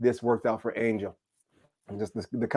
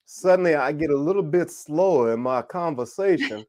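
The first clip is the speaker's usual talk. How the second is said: Southern accent. Shown as a demonstration. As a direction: let a Southern accent creep in, stretching the vowels. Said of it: "my voice starts to change".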